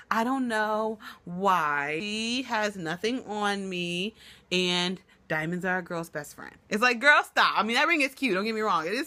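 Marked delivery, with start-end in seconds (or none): 0.1-6.5 slow, mock self-satisfied quote; mocking Lionhead. Vlogger mocking Lionhead's boast, slow and smug. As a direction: stretch it out like a smug reality star. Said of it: "She was like".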